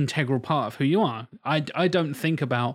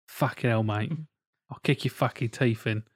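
mock London hard man, lightly voiced; deep London accent. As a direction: put on a London accent, sitting low. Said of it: "very deep and very London".

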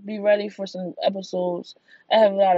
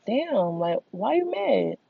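mock confused whine; 6 semitones higher than usual. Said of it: "that shit really just be like".

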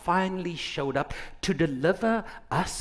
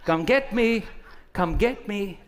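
taunting men; 5 semitones higher than usual. Retold or imitated. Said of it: "Us men will run around the car and say".

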